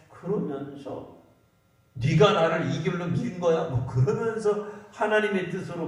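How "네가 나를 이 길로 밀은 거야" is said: lightly acted accusation, a touch emphatic; mock blaming. Preacher voicing a believer blaming someone else, mock accusation. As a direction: throw the blame at someone, half in earnest. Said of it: "다른 사람 원망하고 저주하고".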